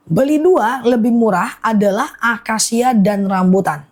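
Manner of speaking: deliberate, phrase-by-phrase sales explanation; slow careful repeat. Real, not acted. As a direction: spell out the offer slowly and clearly. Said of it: "aku ulang pelan-pelan ya guys". (pelan-pelan, jelas per frasa)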